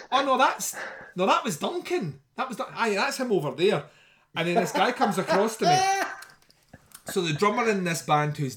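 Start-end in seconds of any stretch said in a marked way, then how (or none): 0.1-3.8 quoting Mark. Retold or imitated. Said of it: "he's like".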